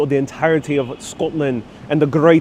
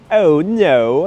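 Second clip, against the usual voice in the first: put-on snooty British accent; 3 dB louder than usual. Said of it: "a little bit like a snooty British accent".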